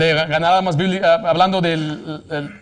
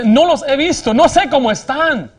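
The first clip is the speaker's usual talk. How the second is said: anguished woman; 7 semitones higher, 4 dB louder than usual. Retold or imitated. Woman confesses abandoning her children.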